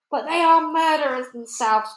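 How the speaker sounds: high, loud protest; cried out. A narrator's reading. Army chief protesting to the Queen, high and loud. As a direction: insist hotly. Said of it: "cried the head of the army".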